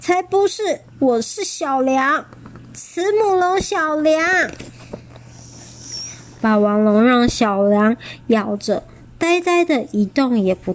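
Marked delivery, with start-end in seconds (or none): 0.0-4.5 tearful insistence. A narrator's reading. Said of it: "眼泪又涌出来了".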